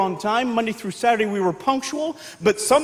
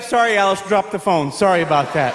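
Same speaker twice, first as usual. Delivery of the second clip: sweet phone voice; 5 semitones lower than usual. Retold or imitated. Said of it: "she'd pick it up".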